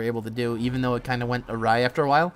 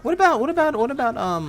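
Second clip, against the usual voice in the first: higher, louder hammed-up excitement; mock enthusiasm; 7 semitones higher, 5 dB louder than usual. Nintendo eagerly pitching old games to players, mock-excited.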